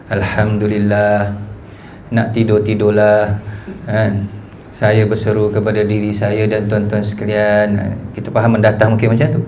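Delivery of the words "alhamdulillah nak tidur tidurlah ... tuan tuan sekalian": slow, low, droning monotone with no rise or fall; flat monotone sermon. Shown as a demonstration. Ustaz demonstrating to fellow preachers the flat sermon reading, slow low monotone. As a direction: drone it out like a sleepy preacher. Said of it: "Mungkin kita faham mendatar ni suara tu".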